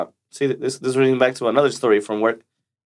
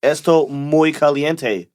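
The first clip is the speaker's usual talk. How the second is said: mock slow Spanish; slower than usual. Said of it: "be like".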